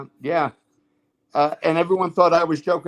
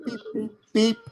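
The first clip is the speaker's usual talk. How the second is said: higher-pitched electronic beep imitation; imitated TV beeps; 5 semitones higher than usual. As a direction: mimic a parrot copying TV channel beeps. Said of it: "he would imitate the beeps".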